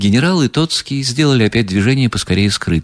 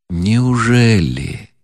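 a slow, understated groan of dismay; mild moan; 2 semitones higher, much slower than usual. Acted. Князь стонет, ломая руки, медленно и сдержанно. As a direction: drag the word out, pained. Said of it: "простонал князь".

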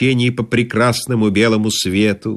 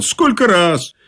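higher-pitched, perky "Сколько раз"; chipper reply; 7 semitones higher, slower than usual. A narrator's reading. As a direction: answer "Сколько раз" with brisk confidence. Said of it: "что я бодро отвечал".

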